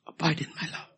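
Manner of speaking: abide pitched high and ringing; ringing high call to abide; high emphatic. Shown as a demonstration. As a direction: lift "Abide in my love" high, proclaiming. Repeated phrase, high then whispered.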